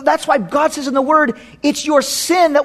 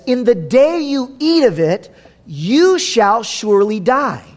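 gentle warning. Shown as a demonstration. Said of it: "Do you hear the difference?".

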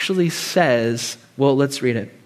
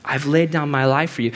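tender plea; 4 dB quieter than usual. Pretend. God voiced pleading with sinner.

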